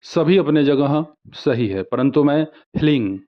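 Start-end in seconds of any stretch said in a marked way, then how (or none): 2.8-3.2 "हलिंग" as one tight hling; preferred pronunciation. Shown as a demonstration. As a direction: run h into l in "हलिंग", ending in ng. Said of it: "ऐसे ही उच्चारण करता हूँ". ("हलिंग" का उच्चारण "ह्लिंग")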